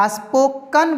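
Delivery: स्पोकन said "spok-kun"; short "uh" after the k in स्पोकन; correct pronunciation. Shown as a demonstration. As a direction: model स्पोकन with a schwa ending. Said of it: "क में अ की ही मात्रा रहेगा".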